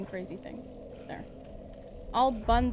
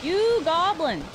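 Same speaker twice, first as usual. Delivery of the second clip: drawn-out, raised "you goblin"; playful outburst; 4 semitones higher, 4 dB louder, slower than usual. Real, not acted. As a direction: stretch out a playful scolding, pitched up. Mock insult during live game.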